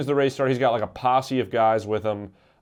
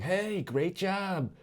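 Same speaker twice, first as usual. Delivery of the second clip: hollow praise; 7 semitones higher, 7 dB quieter, much slower than usual. Retold or imitated. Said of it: "they were like".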